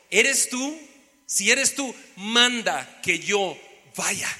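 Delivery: slow, careful and questioning; waiting for the order; patient right version. Retold or imitated. Preacher shows Pedro waiting for Jesus, patient.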